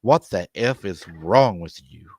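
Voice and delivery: mild mock yell, slow and emphatic; retold yell. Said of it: "I yelled at him".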